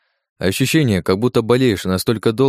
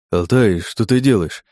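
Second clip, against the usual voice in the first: babbling; slower than usual. Acted. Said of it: "залепетал он".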